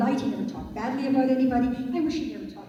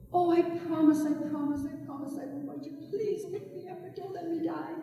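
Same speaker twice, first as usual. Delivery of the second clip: whimpering plea from a dying creature; begging snake; 5 semitones higher than usual. Acted. Snake promising not to bite.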